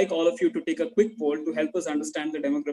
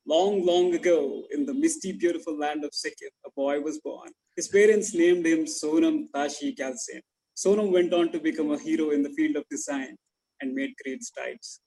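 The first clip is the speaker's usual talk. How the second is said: cheesy baritone. Acted. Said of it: "let me, in a cheesy baritone".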